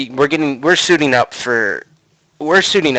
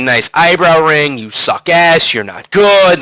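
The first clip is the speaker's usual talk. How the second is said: raised, higher mock yell; retold heckling; 5 semitones higher, 4 dB louder, slower than usual. Gamer and friends screaming at rival team, mock heckling. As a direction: heckle louder with each jab, short of a scream. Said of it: "we're screaming at Darkman".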